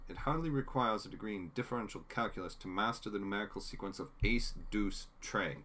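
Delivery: put-on fast, haughty Boston accent. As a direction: rattle it off like a snooty Boston doctor. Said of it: "my Winchester Boston accent".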